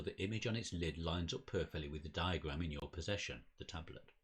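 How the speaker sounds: measured dramatic game narration; storyteller reading aloud; story narration. A narrator's reading. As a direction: read it out like an unfolding mystery. Reads the game's story text.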